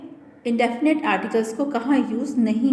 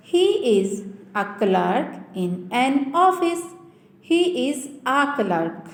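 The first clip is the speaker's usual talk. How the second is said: pron demo; much slower than usual. Shown as a demonstration. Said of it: "sentence में use करते हैं".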